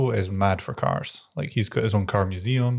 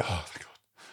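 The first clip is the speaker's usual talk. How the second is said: breathed out softly in relief; relieved whisper; 4 semitones lower, 13 dB quieter, slower than usual. Retold or imitated. After security lets her through, a whispered sigh of relief. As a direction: let the fear go in a whisper.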